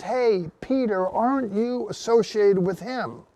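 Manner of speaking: a hint of a pushy onlooker; challenging bystander. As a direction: press Peter with suspicion.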